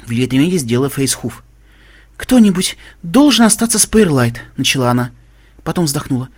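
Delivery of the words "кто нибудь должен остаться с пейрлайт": Velvet's voice. A narrator's reading. Velvet voiced in higher pitch.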